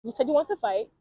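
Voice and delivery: a hint of a calm threat; quoted calm threat. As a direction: lay down the rule quietly. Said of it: "she was like".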